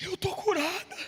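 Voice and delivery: tearful, crying voice, spoken through tears. Retelling a sick woman's phone call to her pastor: imitating a woman crying. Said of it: "você tá chorando".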